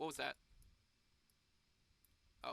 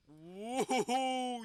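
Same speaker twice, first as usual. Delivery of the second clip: loud, high whoop; excited cheer; 7 semitones higher, 11 dB louder than usual. Real, not acted. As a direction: celebrate the liftoff. Cheering the rocket launch.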